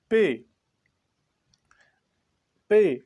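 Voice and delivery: पे with a crisp p and e; letter name demo. Shown as a demonstration. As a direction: model पे for the class. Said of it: "pronunciation की गई है पे".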